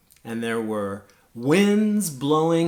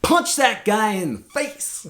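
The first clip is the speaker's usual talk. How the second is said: loud, high street-fighter urging; aggressive inner voice; 9 semitones higher, 6 dB louder than usual. Acted. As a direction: shout it like an order to strike. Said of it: "that part of my mind was very clear".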